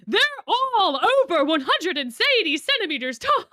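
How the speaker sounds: mock shout of the line. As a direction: read it out as if all caps. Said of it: "Crowley is shouting".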